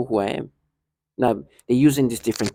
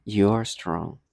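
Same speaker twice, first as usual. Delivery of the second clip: this person's voice; 4 semitones lower, 4 dB quieter, much slower than usual. Retold or imitated. Let me use this person's voice, lower and condescending. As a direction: lower take imitating someone condescending. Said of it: "let me use the, this person's voice".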